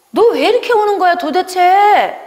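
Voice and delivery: loud, high-pitched mock scolding; exasperated parent scolding. Parent to a child crying over nothing, exasperated scolding. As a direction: demand an answer like a fed-up parent. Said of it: "막 이렇게 왜 자녀들 할 때에도".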